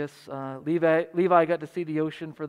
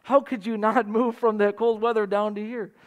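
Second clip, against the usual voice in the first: incredulous; 3 semitones higher than usual. Retold or imitated. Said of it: "it's almost as if he said".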